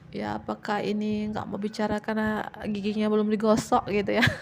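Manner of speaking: joking with a laugh in the voice; playful laughing joke; laughing tease. Real, not acted. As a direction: tease them while chuckling. Teasing joke, "bercanda.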